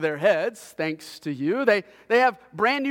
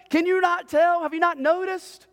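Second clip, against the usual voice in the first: fed-up dad; 8 semitones higher than usual. Retold or imitated. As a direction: lay down the law like an exasperated father. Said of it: "I said".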